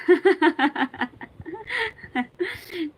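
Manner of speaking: a long, high burst of laughter; laughing hard after reading the funny shayari aloud; big laugh. Real, not acted. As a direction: laugh loud at the punchline.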